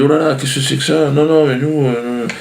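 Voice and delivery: mock flustered newsroom voice; mock AFP staff. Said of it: "ils ont dit". (voix de journaliste affolé, à peine jouée)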